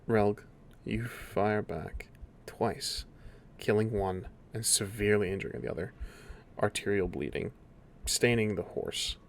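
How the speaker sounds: measured scene-setting with long pauses; game master narration. A narrator's reading. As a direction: narrate the aftermath in spaced phrases.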